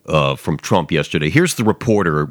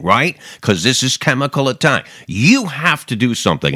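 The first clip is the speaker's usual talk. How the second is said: pushy media mock; 5 semitones higher than usual. Mocking the reporter's push.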